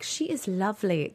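soft, slow, attempted Irish lilt; bad Irish accent. Host imitating judge's comments, horrible Irish accent. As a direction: quote a judge in a badly faked Irish accent. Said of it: "Irish accent".

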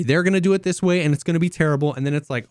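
ordinary delivery

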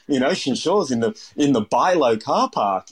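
a hint of wide-eyed innocence; naive younger self. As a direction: play your clueless younger self, pitch lifting. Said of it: "you're very naive".

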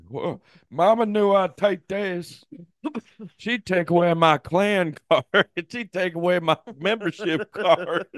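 high, slow redneck drawl with laughs; redneck kid voice. Retold or imitated. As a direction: play the proud hick kid.

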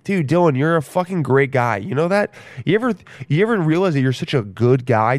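lightly voiced grandpa telling Dylan off; mocking himself as grandpa. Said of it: "That's me".

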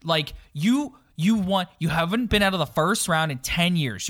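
fired-up trash-talk promo; wrestling promo. Acted. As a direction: call him out like a wrestler on the mic. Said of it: "I'm about to cut a promo on Mike Babcock right now".

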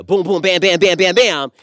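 loud, high string of impact noises; mock-frantic rhythmic banging; mimicked pounding. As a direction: punch out each bam like a comic-book hit. Mimicking a rushed hookup.

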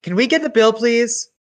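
loud restaurant call; calling out too loudly; loud then suddenly hushed. Real, not acted. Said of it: "inside voice".

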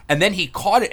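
usual speaking voice

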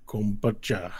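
slow, loud, stretched alien words; Tabacho speaking Draconic. Acted. Tabacho asking about portals, slow Draconic pronouncement. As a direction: pronounce it like a ponderous ruler.

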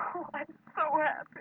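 breathless happy laugh into the words; happy laughing relief. Acted. Evelyn hearing Stanley will be fine, laughing with relief.

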